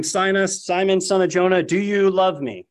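a lightly voiced Christ pressing the question; voicing Christ. A narrator's reading. Christ asks a third time.

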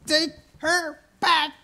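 pleading imagined cry. Pretend. Preacher imagines himself returning Sarah.

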